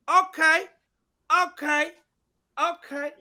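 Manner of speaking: high-pitched repeated okay, fading; Steve Harvey. Acted. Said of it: "a little bit of the Steve Harvey".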